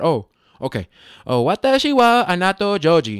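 fake Japanese pronunciation. Retelling trying a Google-Translated phrase on someone; put-on Japanese accent. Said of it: "So I even said it with an accent".

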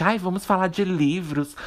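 affected, pedantic, pseudo-intellectual highbrow tone. Ranting about a podcast, imitating a pedantic pseudo-intellectual. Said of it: "no estilo, assim, pedante".

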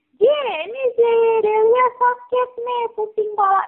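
very high, stretched, drawn-out shout. Telling a story, the speaker acts out someone's shout. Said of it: "dia teriak kayak gini".

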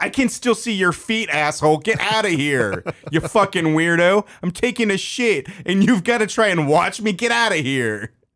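high, screamed outburst. Retelling screaming at a man watching through a crack while on the toilet, retelling a scream. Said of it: "I just screamed".

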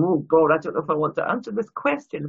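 usual speaking voice

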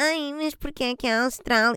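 put-on high, pedantic, nerdy know-it-all voice. Imitating people who question Australia in Eurovision every year, in a put-on voice. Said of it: "Já sabem que esta voz".

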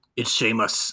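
acted low whisper. Retelling a backstage moment, imitating Santino Marella whispering. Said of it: "just kinda whispers".

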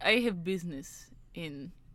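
put-on heavy Russian accent, soft and very slow. Retelling what a caller said on the phone, thick Russian accent. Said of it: "a thick Russian accent".

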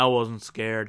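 acted, bone-dry, low deadpan delivery. Retelling a cartoon scene, the speaker acts out Raven's line: mock-deadpan Raven impression. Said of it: "looks back deadpan".

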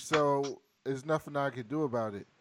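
normal talking voice

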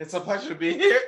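very high voice, breaking and cracking. Answering a friend's introduction at the start of the episode: voice cracking. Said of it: "my voice cracked".

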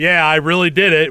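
put-on sarcastic voice. Retelling a line of Doctor West from the film: imitating Doctor West sarcastically. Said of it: "It felt very sarcastic".

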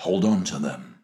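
gentle empathetic late-night voice. Asked to try a late-night tv voice, addressing listeners in a gentle empathetic voice. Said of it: "Do you want something gentle?".

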